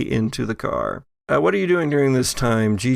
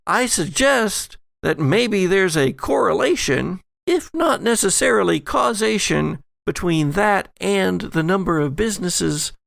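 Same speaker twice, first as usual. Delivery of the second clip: posh lady voice; 6 semitones higher than usual. Acted. GM voices Allison, higher.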